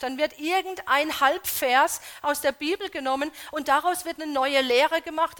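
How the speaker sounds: loud, driving sermon voice; preaching at full force. Acted. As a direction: preach it out to the congregation. (kraftvoll laut predigen)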